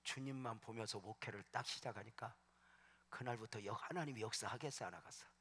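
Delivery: normal talking voice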